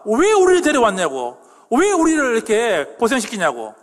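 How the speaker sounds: retold complaint. Preacher voices the people after the spies' report, complaining. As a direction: imitate people complaining at their leaders. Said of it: "보고 후에 어떻게 합니까".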